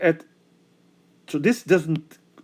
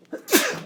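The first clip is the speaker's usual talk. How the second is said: sneezing; 4 semitones higher than usual. Real, not acted. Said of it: "I'm gonna sneeze again".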